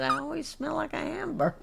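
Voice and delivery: high, light retelling of a friend's complaint; quoting Leanne. Retold or imitated. Friend retelling Leanne's hamburger line, lightly voiced and high. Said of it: "She said".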